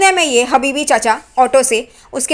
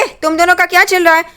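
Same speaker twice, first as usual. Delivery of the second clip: high, fast shocked demand; startled confronting; 5 semitones higher, faster than usual. Retold or imitated. Aunt turns on light and confronts pair, shocked. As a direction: catch them in the act, sharply.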